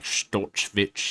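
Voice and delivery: drawn-out German-accented surname. Shown as a demonstration. Host repeating the fighter's surname, slow German accent. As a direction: stretch the name out in a German accent. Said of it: "German accent no matter what".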